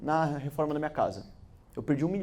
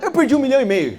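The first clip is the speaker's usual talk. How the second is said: laughing; 7 semitones higher, 10 dB louder, faster than usual. Real, not acted. Laughing escalation of loss.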